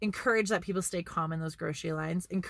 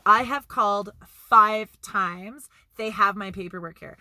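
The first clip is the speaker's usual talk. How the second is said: retold frustration; 6 dB louder than usual. Friend arguing with test-site staff, exasperated. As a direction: push back hard at the desk. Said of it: "And he's like".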